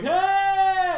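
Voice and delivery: high, loud retold call; loud retold hey to get attention; retold shout. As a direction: call out across the line. Calling out at front of line.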